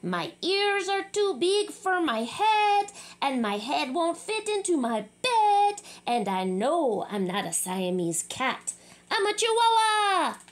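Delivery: hammed-up Spanish accent. Kitty boy in his very best Spanish accent at the mirror. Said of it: "using his very best Spanish accent".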